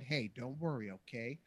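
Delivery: softly reassuring, slowing down; mock-soothing, soft and slow coaxing; George Lucas. Director coaxing an uncomfortable actress, mock reassuring. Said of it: "George reassured me".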